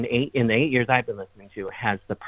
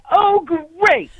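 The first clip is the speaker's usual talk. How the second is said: much higher, louder sing-song oh great; high, loud mock host catchphrase; signature catchphrase; 7 dB louder than usual. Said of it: "start every single troth with".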